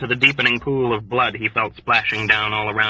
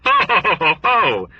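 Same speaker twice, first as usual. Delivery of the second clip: big booming ho-ho laugh, pitched up high; a jolly, condescending belly laugh; roaring with indulgent merriment; hearty mock laugh; 9 semitones higher than usual. A narrator's reading. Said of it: "indulgent merriment swelled tremendously".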